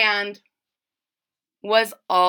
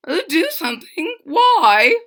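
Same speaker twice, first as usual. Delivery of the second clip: smiling; 7 semitones higher, 6 dB louder than usual. A narrator's reading. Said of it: "smiled the captain".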